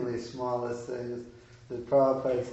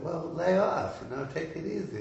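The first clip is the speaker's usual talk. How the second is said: higher-pitched, mild retort; casual pushback; 5 semitones higher than usual. Retold or imitated. Imagined reply to a nagging godbrother, mild protest. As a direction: wave off the demand in a raised pitch.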